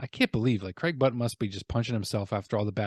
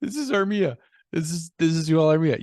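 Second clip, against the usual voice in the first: lightly put-on voice; 4 semitones higher than usual. Presenting player in put-on voice.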